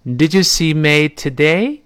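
"Did you see May today" read slowly with a rising end; question rise. Shown as a demonstration. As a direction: model question, tune lifting on "today". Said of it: "最后一般疑问句声调".

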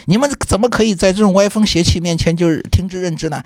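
high, indignant mock lecture; imitating a scolding. Director scolds staff for ignoring fake bills, high indignant mock lecture. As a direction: replay the old man's righteous telling-off, half-hearted. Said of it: "他就骂我们说".

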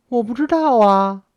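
mildly bewildered, voice lifted high; baffled. A narrator's reading. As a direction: answer as if completely in the dark. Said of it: "少奶奶莫名其妙地回答".

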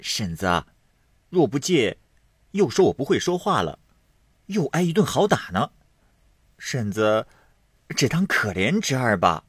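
put-on young man pleading, pitched high and quick; high begging young nephew voice; wheedling nephew. A narrator's reading. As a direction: coax your aunt with a cheeky whine. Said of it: "嘻嘻的笑着，在炕沿上半跪道".

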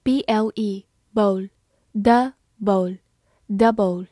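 letter by letter, very slow; drawn-out spelling drill. Shown as a demonstration. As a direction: spell it out slowly for learners. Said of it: "spelling the word slowly".

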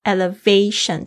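Elevation with the stress on the V syllable. Shown as a demonstration. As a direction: lean on the V in Elevation. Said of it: "重音是在V上面". (重音放在V上的Elevation)

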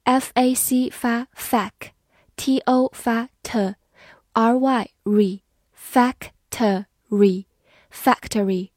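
"factory" sounded out slowly as fac, t, re, then joined; syllable by syllable. Shown as a demonstration. Teacher shows learners how the letters sound, syllable by syllable. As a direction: break "factory" into three spaced syllables, then blend.

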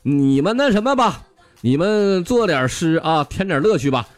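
put-on 1 old rich man voice. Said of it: "于是他就说了".

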